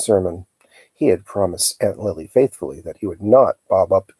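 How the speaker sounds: steady read-aloud storyteller voice; calm chapter reading; story narration. A narrator's reading. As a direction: read the chapter to listeners at home. Reads novel chapter aloud.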